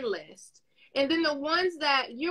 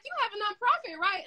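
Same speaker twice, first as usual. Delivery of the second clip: mock questioning; 9 semitones higher than usual. Acting out people's question to her.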